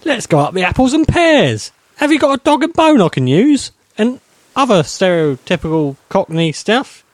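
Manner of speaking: put-on Cockney accent. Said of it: "There's Bobby the Cockney".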